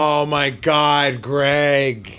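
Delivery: slow, drawn-out exasperation; long exasperated groan of words. Real, not acted. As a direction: drag the words out, fed up with a friend. Exasperated protest over banning Italian.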